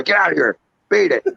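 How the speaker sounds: high-pitched mock shooing; mock scolding. Edge sending Hornswoggle away down the hallway, mock scolding. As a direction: pretend to run off a nuisance. Acting out Edge chasing someone off.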